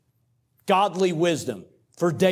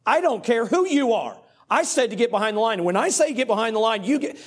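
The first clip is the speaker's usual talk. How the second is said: higher, fast, irate scolding; 6 semitones higher, faster than usual. Retold or imitated. Official refusing to hear the coach out, angry. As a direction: snap the order back at him. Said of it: "she was just irate".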